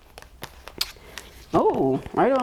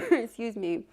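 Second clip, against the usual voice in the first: ordinary talk, nothing marked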